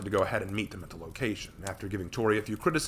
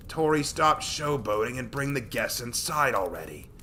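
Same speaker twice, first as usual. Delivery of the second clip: stern scolding; 4 semitones higher, 5 dB louder, slower than usual. Acted. Mato scolding.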